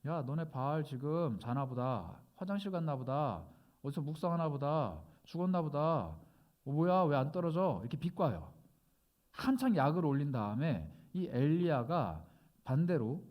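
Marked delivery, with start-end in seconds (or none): 0.1-7.8 mocking taunt. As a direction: needle them lazily, like a bored heckler. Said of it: "엘리야가 비꼬입니다".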